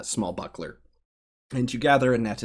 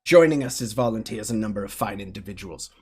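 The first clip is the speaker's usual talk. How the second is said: arena announcer; 3 dB louder than usual. Acted. Announcer introducing gladiators.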